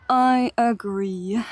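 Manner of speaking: slow, hushed whispered agreement. Real, not acted. Streamer agreeing with chat, slow whisper. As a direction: whisper it like a secret aside.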